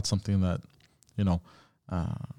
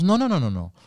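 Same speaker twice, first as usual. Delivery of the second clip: string of no's in a higher imitated voice; retold denial; 6 semitones higher than usual. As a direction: mimic her waving it off, pitched up. Retold denial from his date.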